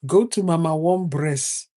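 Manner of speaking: put-on lightly accented, the end of "Breast" dropped; mild mock accent; imitating an accent. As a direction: mimic the locals saying "Mama One Breast". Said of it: "they won't pronounce it all the way".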